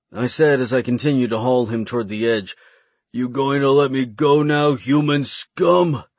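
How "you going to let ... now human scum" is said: fearful. A narrator's reading. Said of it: "his voice was lined with fear".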